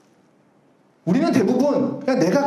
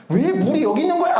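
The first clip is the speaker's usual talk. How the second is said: higher-pitched, mildly irritated retort; mock angry outburst; 6 semitones higher than usual. Pastor re-enacting his fuss over water on the table, mock angry. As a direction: imitate yourself flaring up over nothing. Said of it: "그러면서 막 화를 내요".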